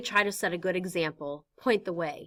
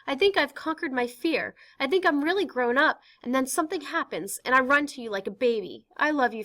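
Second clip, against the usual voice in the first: Anne pouring out her heart, higher; earnest teenage girl; 5 semitones higher, 4 dB louder than usual. Acted. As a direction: confess to Pym, eager and raw. Anne confessing to father.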